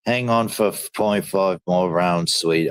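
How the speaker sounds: a hint of a British fighter's corner; British accent. Streamer voicing a British cornerman, light British accent. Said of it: "I only do Brits with the British accent".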